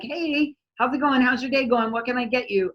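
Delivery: high, bright-toned friendly welcome; cheerful barista greeting. Retold or imitated. Starbucks worker greeting a customer, high and cheery. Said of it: "There's like".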